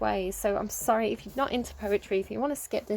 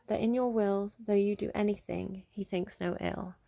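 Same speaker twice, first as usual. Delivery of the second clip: genuine reading. Shown as a demonstration. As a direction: read it like a devoted lover. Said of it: "if I was, like, genuine".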